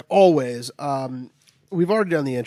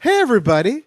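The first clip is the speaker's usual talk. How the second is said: hyped greeting; 7 semitones higher, 5 dB louder than usual. Acted. Opening the show loudly.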